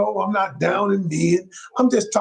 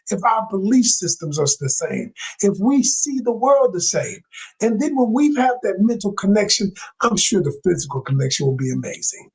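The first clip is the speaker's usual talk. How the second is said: calm, sincere; 2 semitones lower than usual. Shown as a demonstration. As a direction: gently set a boundary with a flattered, sincere tone. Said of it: "the way I'm about to teach you".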